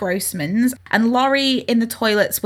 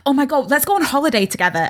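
gushing, quick and higher-pitched; drunken enthusiasm; 4 semitones higher, faster than usual. Acted. Friend making drunk plans with mates, gushing. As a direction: gush out a tipsy holiday plan. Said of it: "When you're drunk and you're like".

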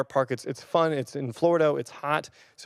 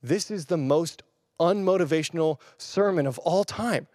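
doubtful listener; 5 semitones higher than usual. Retold or imitated. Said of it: "and you're like".

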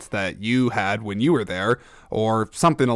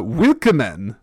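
attempted German accent; slower than usual.

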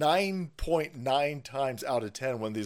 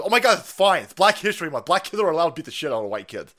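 higher, louder dismissive mock; mock lefty; 4 semitones higher, 6 dB louder than usual. Lefties excusing the bus attack, in a high mocking voice. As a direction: brush it off like a smug lefty.

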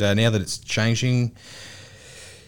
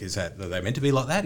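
naive question; 5 semitones lower, 6 dB quieter, faster than usual. Retold or imitated. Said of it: "And I'm like".

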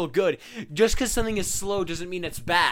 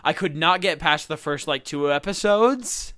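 exaggerated cartoon intonation. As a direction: stretch each word like a cartoon. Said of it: "Why are you talking like this?".

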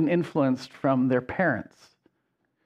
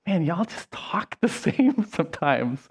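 whispered aside, breaking into a laugh; amused whisper; 2 semitones higher, 4 dB quieter than usual. Retold or imitated. Wife teasing about friends sounding alike, amused whisper. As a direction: hush it like a private joke, laughing mid-line. Wife's remark quoted, hushed.

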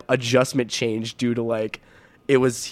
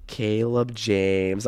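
slow, drawn-out full-name scolding; scolding mom; much slower than usual. Retold or imitated. Mom reacting to skipped class, slow mock scolding. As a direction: imitate a mom stretching out the name.

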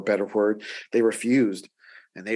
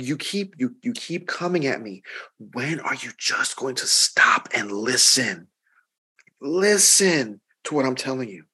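frustrated. Retold or imitated. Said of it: "he was getting a little just frustrated".

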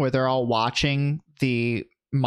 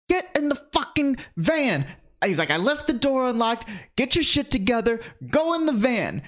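much higher put-on bossy yell; mock rapper yelling; 9 semitones higher than usual. The rapper orders Michael into the van, hammed-up yell. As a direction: bark orders like an impatient rapper. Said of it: "And he's yelling".

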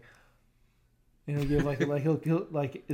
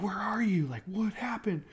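imitating wife; 7 semitones higher than usual. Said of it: "Kayla will be like".

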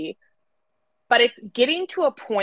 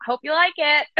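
fast and higher, mock-sweet; sarcastic universe; 6 semitones higher, faster than usual. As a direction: cheerfully deliver the bad news. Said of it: "that's what your frequency is telling me".

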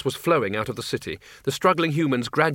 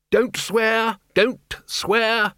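high, loud shouted warning; Ridcully shouting above the noise; 9 semitones higher, 3 dB louder, much slower than usual. Acted. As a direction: yell it over the din. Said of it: "shouted Ridcully above the noise".

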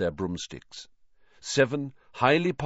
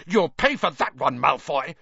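higher-pitched angry yell; moderately raised, threatening cry; 5 semitones higher, 3 dB louder than usual. A narrator's reading.

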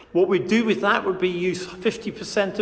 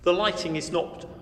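hallway echo; 4 dB quieter than usual. Real, not acted. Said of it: "As you can hear from the echo of my voice".

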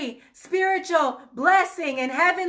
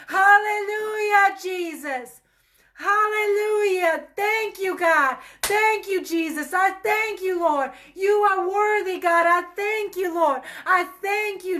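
ecstatic praise; 4 semitones higher than usual. Shown as a demonstration. Preacher shows how she'd react to the breakthrough, high and crying. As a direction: pour out joyful, tearful thanks. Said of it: "I can tell you how I would react".

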